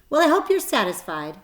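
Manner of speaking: high, loud sneer; scornful jab at the spider. A narrator's reading. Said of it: "sneered the rat".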